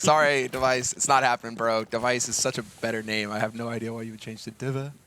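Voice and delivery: loud mock Danish accent. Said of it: "like, a Danish accent".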